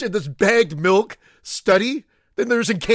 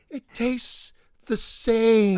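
very slow, each word spelled out; over enunciating; much slower than usual. Shown as a demonstration. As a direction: say it slowly for a slow listener. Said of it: "Let me say it slowly so that Johnny New Pants gets it".

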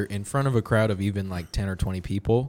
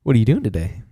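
prank caller voice; 6 semitones higher, 7 dB louder, faster than usual. Pretend. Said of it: "prank call scene".

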